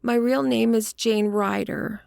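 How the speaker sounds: high, feminine confession; woman's voice. A narrator's reading. Woman admitting her real name to detective, high voice. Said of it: "said she".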